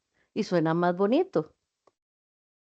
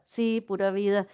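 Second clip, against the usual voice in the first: calm reply; 5 dB quieter than usual. Shown as a demonstration. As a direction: answer easily, all is fine. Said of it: "aquí hablé de tres cosas diferentes".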